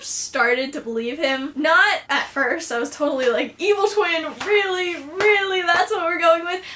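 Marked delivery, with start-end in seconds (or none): 3.6-6.6 higher-pitched, sceptical disbelief; retold reaction, doubting it completely; incredulous scepticism. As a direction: scoff at a lame plot twist. Retells her sceptical first reaction.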